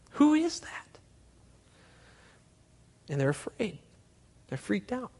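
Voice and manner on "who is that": Who is that, whispered with a rising tune; an awed whisper to the crowd. Acted. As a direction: hush it like a frightened secret. Same question repeated whispered.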